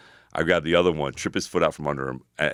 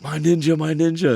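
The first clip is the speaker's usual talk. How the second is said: high-pitched, excited imitation of a buddy; imitated excited hail; 13 semitones higher, 4 dB louder than usual. Imitating a gang leader running over after the brawl, excited hail. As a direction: mimic someone running over thrilled, voice pitched way up.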